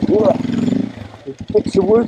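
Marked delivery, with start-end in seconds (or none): 0.1-0.4 high gleeful whee. Real, not acted. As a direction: squeal with glee. Riding again.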